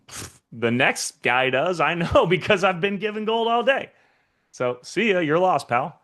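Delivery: high, breezy mock swagger; cocky shrug-off. Coach plays a giver brushing off a refusal, high cocky mock. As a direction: brush them off like you've got gold to spare.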